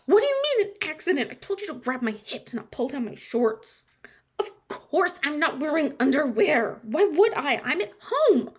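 fast, loud furious scolding; angry rant. Acted. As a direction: tear into him. Berating friend about shorts.

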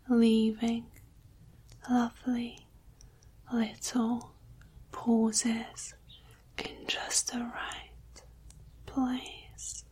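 slow, with lingering pauses between words. Shown as a demonstration. Showing the listener she can slow down, lingering breathy pauses. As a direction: let each word trail into a soft pause. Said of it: "I can slow it down if you like".

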